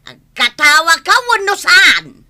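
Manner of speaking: loud pushy challenge; loud demand. Acted. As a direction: bark it as an ultimatum. Demanding she laugh, confrontation.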